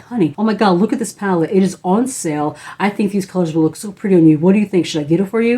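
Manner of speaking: mildly excited retelling of an eager husband. Retold or imitated. Husband urging wife to get a palette on sale, mildly excited. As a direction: imitate an excited husband, a touch animated. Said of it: "he was so excited".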